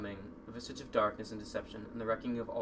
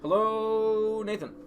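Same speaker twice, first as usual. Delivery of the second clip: character voice; 10 semitones higher, 9 dB louder, much slower than usual. Acted. Character greeting in put-on voice.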